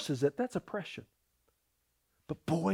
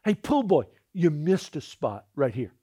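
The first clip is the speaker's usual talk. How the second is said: spiteful; 2 semitones lower than usual. Retold or imitated. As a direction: imitate a spiteful customer. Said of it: "it was almost out of spite".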